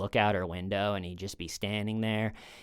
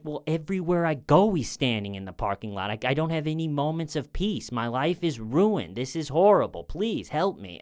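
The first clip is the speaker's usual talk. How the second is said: higher-pitched, imitated plea for help; mildly distressed pleading; 4 semitones higher than usual. Stalked woman appealing to unhelpful cops, mildly desperate pleading. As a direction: voice a retold plea, stressing each grievance.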